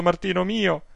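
an aggrieved pious aunt pouring out her complaints; indignant old aunt. Acted. Old aunt telling her nephew about the priest, scandalized.

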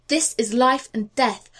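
This is life and death, stress on This, pressing; urgent plea. Acted. John Quincy pressing the officer, stress on This. Pleading to board the departing ship.

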